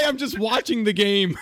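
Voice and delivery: laughing through an imitated line; laughing mock quote. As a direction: quote him while cracking up. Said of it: "He wanted to say".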